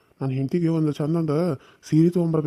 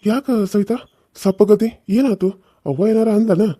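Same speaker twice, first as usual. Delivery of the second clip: higher, louder anxious questions; concerned questioning; 4 semitones higher, 5 dB louder than usual. Acted. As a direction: press her with worried, raised-voice questions. Husband asks why wife is downcast. (ಕಾಳಜಿಯಿಂದ ದನಿ ಏರಿಸಿ ಕೇಳುವುದು)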